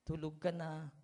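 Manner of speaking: a sweetheart's tender "Tulog ka na"; gentle goodnight. Retold or imitated. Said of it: "ang lulumanay yung magsagutan".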